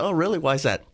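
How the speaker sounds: high, bright fake surprise, playing along; dad hamming up his curiosity to his little daughter; mock surprised. Dad asks his daughter, mock surprised.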